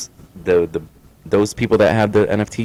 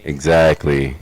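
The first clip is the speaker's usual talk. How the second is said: monotone; 5 semitones lower, much slower than usual. Retold or imitated. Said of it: "real monotone".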